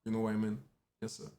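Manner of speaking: French-accented English, halting. Real, not acted. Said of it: "et un accent anglais potable".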